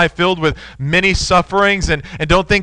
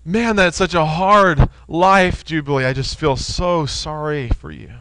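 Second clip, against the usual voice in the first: mock sympathy. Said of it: "hate it when that happens".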